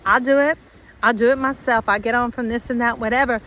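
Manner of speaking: loud, defiant "I'll do it myself"; defiant attitude. Retold or imitated. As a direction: snap it back like a stubborn loner.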